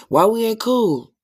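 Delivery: mock hurt friend. Cut-off friend asking why they aren't cool, high whiny mock plea. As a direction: whine like a dropped friend begging back in.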